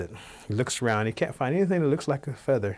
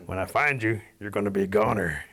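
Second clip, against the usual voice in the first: bear warning. Acted. Bear warns the Cherokees.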